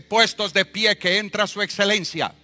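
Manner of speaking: loud, high courtroom call to stand; all rise call. Retold or imitated. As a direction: announce the judge with ceremony. Officer calls court to rise.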